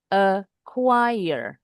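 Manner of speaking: "acquire" drawn out, second syllable stressed; short first syllable, then lean on the rest of "acquire". Shown as a demonstration. Teacher demonstrates the stress mark, "acquire" stressed on the second syllable. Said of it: "itu caranya".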